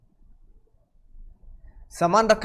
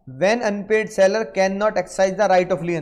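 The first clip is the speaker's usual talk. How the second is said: very slow, word by word; slow dictation; much slower than usual. Shown as a demonstration. Teacher dictating the exam question to students, very slow. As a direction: read it slowly so they can write. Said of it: "question ये बनेगा".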